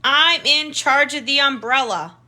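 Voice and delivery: put-on a lightly chirped, bossy little-girl line; mild chirp, read aloud to kids; chirpy. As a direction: chirp it like a proud big sister taking charge. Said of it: "Maple would chirp".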